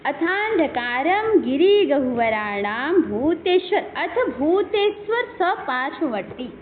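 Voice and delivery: slow, measured Sanskrit chant; verse recitation. Shown as a demonstration. Teacher reciting the verse line to students, slow chant. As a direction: lay out each syllable of the verse evenly. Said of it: "ये कह रहे हैं कि".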